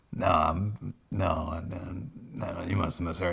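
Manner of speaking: soft, backtracking mock Batman; sheepish mumbled denial. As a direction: deny it quietly, stumbling over the words. Imagined Batman sheepishly denying his mutter.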